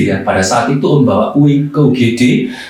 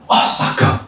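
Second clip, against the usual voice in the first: breathless startled whisper; startled gasp; 4 dB quieter than usual. Retold or imitated. Preacher startled by the young man, whispered gasp. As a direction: gasp it under your breath. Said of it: "Om kaget".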